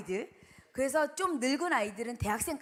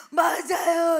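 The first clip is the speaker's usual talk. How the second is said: loud, higher tearful cry; boy wailing his agreement; crying shout; 7 semitones higher, 12 dB louder, much slower than usual. Retold or imitated. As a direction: wail it out sobbing. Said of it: "막 울면서".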